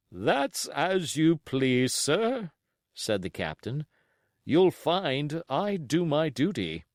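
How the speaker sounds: slow, firm captain; curt captain. Acted. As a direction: stiff parting reply. Captain takes his leave.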